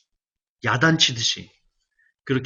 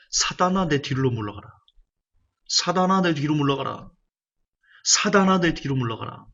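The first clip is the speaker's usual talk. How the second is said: stern rebuke; 2 semitones higher than usual. Acted. Jesus rebuking Peter, a stern commanding call. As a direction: drive him back with a firm command.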